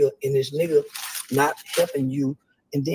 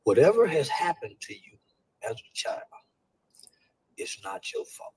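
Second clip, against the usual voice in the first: starts plain and drops to a whisper; gentle reassurance fading into a whisper; soft reassurance. Shown as a demonstration. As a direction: ease into a hush as if telling a child. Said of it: "this is what I said".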